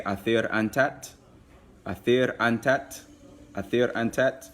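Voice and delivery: athir antat repeated slowly for learners; slow language demo. Shown as a demonstration. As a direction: model athir antat clearly for the class. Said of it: "you would say".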